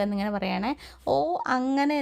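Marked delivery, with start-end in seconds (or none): 1.1-2.0 a light retold shout, a touch higher; mock loud call. Sachi calls out to Mahesh at a playful, mildly raised volume. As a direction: call it out half-jokingly loud. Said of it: "ഒച്ചത്തിൽ വിളിച്ച് പറയുവേ".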